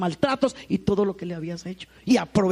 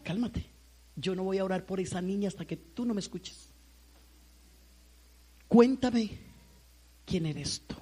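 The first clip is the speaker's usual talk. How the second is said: softer, slower calming questions; calm and firm; 5 dB quieter than usual. Retold or imitated. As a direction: settle her down gently but firmly. Pastor calming an angry woman. (tono calmado y firme)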